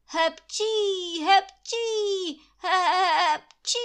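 loud, high string of sneezes; sneezing fit. Acted. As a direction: sneeze over and over. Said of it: "začala ještě víc prskat".

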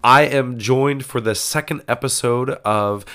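stuffy nose from a cold; nasal voice. Real, not acted. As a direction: speak through a blocked nose. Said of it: "my nasally voice because I'm dealing with some sort of cold".

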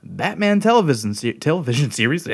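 a little tipsy, tripping on words; tipsy host stumbling over words. Real, not acted. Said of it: "You drunk?".

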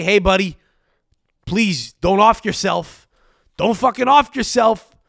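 loud, drawn-out mock plea; mock coaxing. Host imagining club pleading with an old fan, mock coaxing. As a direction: plead slowly, as if to a sick kid. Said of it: "Like he's a Make-A-Wish kid".

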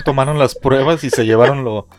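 hiccuping mid-sentence; with hiccups. Real, not acted. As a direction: hiccups breaking the words. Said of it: "lo que me dio hipo".

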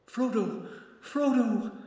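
high, desperate calling. A narrator's reading. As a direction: call out his name into the dark.

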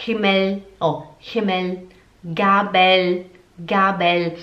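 Himmel and Gabel mouthed clearly; German demo. Shown as a demonstration. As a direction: show the lips on Himmel. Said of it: "Sempre aqui na boca". (Himmel e Gabel bem articulados)

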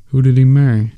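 hoarse, pressing question; hoarse demand. A narrator's reading. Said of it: "he demanded hoarsely".

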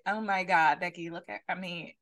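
lightly put-on valley-girl voice; Becky. Shown as a demonstration. Showing off an impression to co-host, Becky voice. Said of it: "my Becky voice real good".

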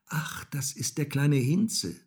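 lightly voiced little boy; child recognising someone. A narrator's reading. Häwelmann spots the little cat, pleased recognition.

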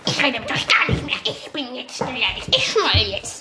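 put-on sulky teen. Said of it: "so voll beleidigt".

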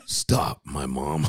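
loud dramatic trailer announcer; movie trailer voice. Pretend. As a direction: punch it out like a trailer. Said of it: "can you do the movie voice".

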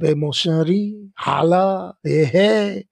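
put-on smooth French-accented sweet talk, lightly done. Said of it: "he had that smooth French accent".

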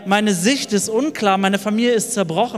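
rising, pleading preacher's cry; impassioned sermon lament. Acted. Preacher voicing a mourner's lament over the empty grave, impassioned. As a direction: pour out the grief of the lost follower.

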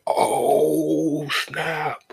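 a high, loud shocked "oh snap"; shocked exclamation. Retold or imitated. Reacting to seeing her again, loud shocked exclamation. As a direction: blurt it out, caught off guard.

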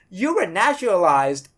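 naturalized given weight; stress on naturalized. Shown as a demonstration. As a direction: lean on the word naturalized. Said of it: "I emphasize on the word naturalized".

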